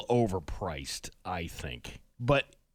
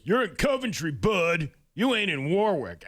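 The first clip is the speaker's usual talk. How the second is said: mocking commenter; 6 semitones higher, 3 dB louder than usual. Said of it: "people were like".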